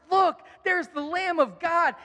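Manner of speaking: high, slow, eager announcement; thrilled to point the way; joyful proclamation; excited. Shown as a demonstration. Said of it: "he is excited".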